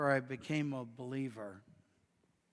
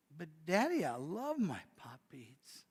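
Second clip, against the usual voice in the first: mild pleading; 5 dB quieter than usual. Acted. Girl pleads to keep beads.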